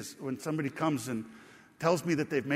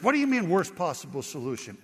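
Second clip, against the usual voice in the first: retold yell; 4 dB louder than usual. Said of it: "he just yelled at me".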